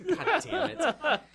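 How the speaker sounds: laughing through a curse; cracking up while cursing. Real, not acted. Laughing frustration at own stumble.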